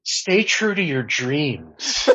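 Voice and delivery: slow, earnest motivational pronouncement through a laugh; hammed-up guru wisdom, drawn out; Gary V impression. Guest asked for final wisdom, answers as a slow mock guru. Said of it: "That was fucking Gary V all the way".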